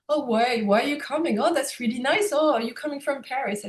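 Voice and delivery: sweetly curious questions, a hint of put-on host; imitating a friendly monk.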